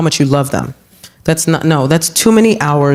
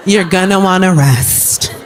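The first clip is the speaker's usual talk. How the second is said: slow and flat, doctor style; slow deadpan; slower than usual. Retold or imitated. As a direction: drag it out dryly. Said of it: "That's all they say".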